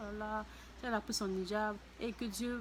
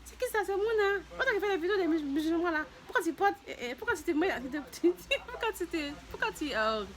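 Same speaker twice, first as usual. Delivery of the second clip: loud, high accusing questions; nosy ladies scolding; 8 semitones higher, 4 dB louder than usual. Retold or imitated. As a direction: grill her with indignant questions. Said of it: "Elles m'ont dit".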